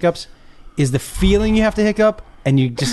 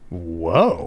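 sudden hiccup catch; a gasp cut by a hiccup; 13 semitones lower, 3 dB quieter than usual. Real, not acted. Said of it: "what was that?".

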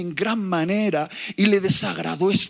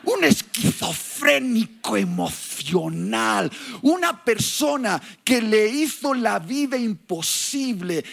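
preaching; 2 semitones higher than usual. Acted. Preacher stressing Saul's cruelty.

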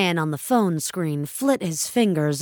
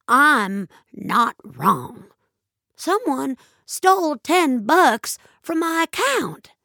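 slow, then higher, insistent; firm insistence; 7 semitones higher than usual. A narrator's reading. Ellen convincing herself, slow and insistent. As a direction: dig in and insist.

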